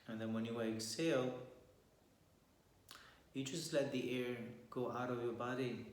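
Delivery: calm meditation guide with long pauses; guided meditation. Real, not acted. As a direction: guide listeners gently through posture and breath, leaving long silences.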